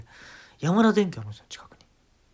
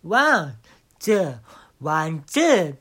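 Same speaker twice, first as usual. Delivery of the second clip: count-in; 6 dB louder, much slower than usual. Shown as a demonstration. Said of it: "カウントだし".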